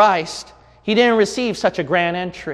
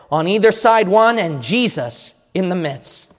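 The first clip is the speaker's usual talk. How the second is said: measured Bible reading voice; solemn scripture recital; 3 semitones higher than usual. Acted. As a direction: read the passage with reverent weight. Reads scripture passage aloud.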